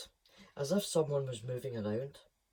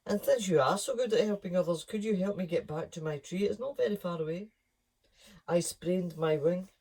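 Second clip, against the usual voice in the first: higher, louder coaxing parrot; pleading parrot; 5 semitones higher, 4 dB louder than usual. Acted. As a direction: wheedle for help. Peck asking favour.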